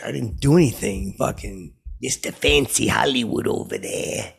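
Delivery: a lightly voiced snooty mimic; a light mock impression at the bowling lane. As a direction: lightly put on a mocking voice. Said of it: "I'm doing the impression".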